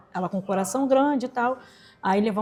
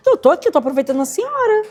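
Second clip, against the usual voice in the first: exasperated retort; 7 semitones higher, 6 dB louder than usual. Retold or imitated. Daughter snaps back at mother.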